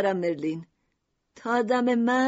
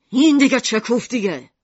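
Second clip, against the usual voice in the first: angry; 6 dB louder than usual. Acted. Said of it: "میشیما با عصبانیت گفت".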